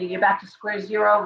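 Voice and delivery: usual speaking voice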